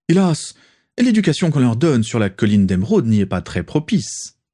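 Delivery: voix bien plus aiguë et plus forte; Rosier exalté. Acted. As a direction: approuver avec fougue. Rosier enthousiaste. (Rosier approuve Lucius avec fougue, aigu et fort)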